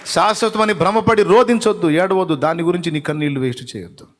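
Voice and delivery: loud, high-pitched urging; forceful exhortation. Real, not acted. Preacher urging mourners not to weep, forceful exhortation.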